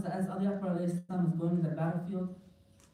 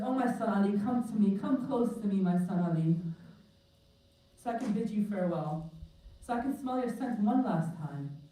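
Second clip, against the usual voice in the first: higher-pitched, acted fatherly grief; tearful farewell plea; 4 semitones higher than usual. Father bidding his son farewell before battle, imitated tearful pleading. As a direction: plead for one last embrace, pitched up. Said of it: "Imam Hussain is crying".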